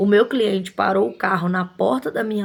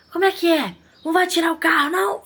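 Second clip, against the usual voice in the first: higher, mocking a cocky, confrontational attendant; rude challenge; 7 semitones higher than usual. Shop owner imitating the attendant confronting her customer, mocking. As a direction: throw the question back with scornful disbelief. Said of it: "Falando desse jeito, gente".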